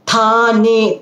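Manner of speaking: Thane starting on an aspirated t. Shown as a demonstration. Teacher showing the second-row consonant, Thane with aspirated t. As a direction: puff of air on the Th of Thane. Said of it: "Tha should be second with the".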